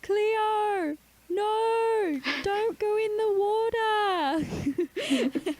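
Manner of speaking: high, squeaky mock Australian accent; hammed-up Australian TikTok impression. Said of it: "Do your best Australian accent".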